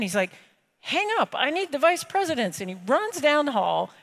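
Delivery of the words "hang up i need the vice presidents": much higher, urgent mock banker; hurry, you need your people now. Banker calling for his vice presidents, urgent high voice.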